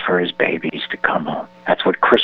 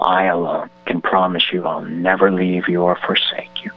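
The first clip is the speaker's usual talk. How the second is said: closing prayer; 3 semitones lower than usual. Acted. Host asks him to end with prayer, earnest prayer.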